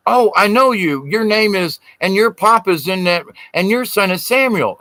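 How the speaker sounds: a friend who is glad to spot you; excited recognition. Retold or imitated.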